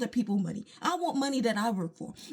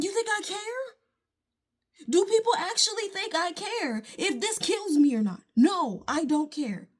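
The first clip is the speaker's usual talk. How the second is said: defiant scoff; 3 semitones higher than usual. Real, not acted. Defiant rant about not caring.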